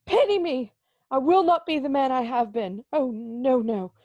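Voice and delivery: exclaiming. Acted. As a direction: burst out pleading, then settle.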